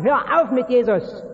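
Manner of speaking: langsame, etwas lautere Drohung; drohend. Acted. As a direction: nachgespielte Drohung, nicht voll ausgespielt. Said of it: "da werden sie dich bedrohen". (Leute drohen dir, mit Jesus aufzuhören, langsam und leicht gespielt drohend)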